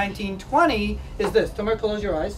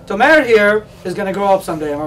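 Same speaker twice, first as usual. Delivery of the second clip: Tomer said with an Israeli accent, louder; 4 semitones lower, 5 dB louder than usual. Shown as a demonstration. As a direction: give the name Tomer its Israeli sound. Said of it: "I'm gonna say it in the Israeli accent".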